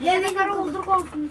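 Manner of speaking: ordinary talk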